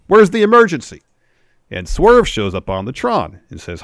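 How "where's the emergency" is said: high, loud imitation of an outraged challenge; worked-up retort in a raised, high voice; acted demand. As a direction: shout the question as a wrestler would, pitched way up. Retold angry challenge from Max Caster.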